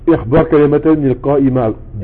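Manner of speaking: fast Arabic reading of the exercise; reading instructions aloud. Shown as a demonstration. (lecture rapide de la consigne)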